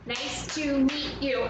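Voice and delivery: "Nice to meet you" slow and evenly beaten; one beat per word. Shown as a demonstration. Teacher models a sentence, slowly beat by beat. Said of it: "each one has one beat".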